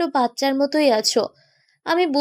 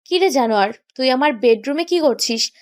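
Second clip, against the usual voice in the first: silly grin; 3 semitones lower than usual. Acted. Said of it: "বোকা হাসি দিয়ে বলতে লাগলো".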